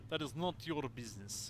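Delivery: curt Russian seaman; Russian accent. Acted. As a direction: stress on not, Russian accent. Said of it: "sorry to literally anybody who actually has a Russian accent".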